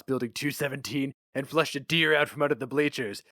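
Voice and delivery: lightly voiced gruff newspaper boss; a hint of a jaded editor reminiscing; boss Flammer. Flammer gives assignment.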